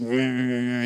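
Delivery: drawn-out wordless grumble; grumpy morning grumble. Retold or imitated. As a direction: grumble like someone before their coffee. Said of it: "been grumpy".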